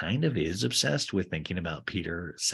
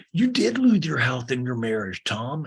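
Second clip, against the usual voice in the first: lightly mocked reality star; loud, pushed start, easing off on the name; Sandoval; 4 semitones higher, 6 dB louder, slower than usual. Co-star reminding his friend of his losses, mock emphatic. Acted quote of cast member Sandoval.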